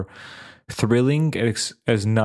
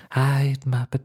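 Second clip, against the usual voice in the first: put-on odd, less generic southern accent; Robert Pattinson; 3 semitones higher than usual. Podcaster showing the actor's unique voice, odd southern accent. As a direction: imitate an unusual southern accent, lightly. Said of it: "his voice was different".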